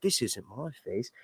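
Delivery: lightly imitated British audiobook narrator's accent; Roy Dotrice British accent. Fan imitating audiobook narrator as frightened Arya, British accent. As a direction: slip into a mild British accent for the quote. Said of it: "slight of Roy Dotrice's accent".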